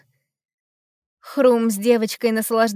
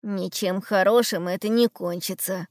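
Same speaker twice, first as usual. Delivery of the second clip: sighing; 3 semitones lower than usual. Acted. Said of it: "вздохнул Ум".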